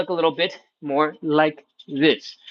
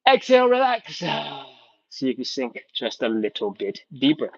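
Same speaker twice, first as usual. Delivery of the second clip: guided breathing; 3 semitones lower than usual. Shown as a demonstration. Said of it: "Let's do it again".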